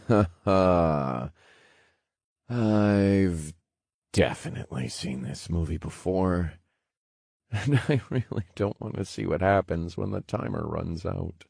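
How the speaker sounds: tired laugh through the words; weary chuckle. Acted. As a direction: chuckle it, resigned. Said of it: "He chuckled wearily".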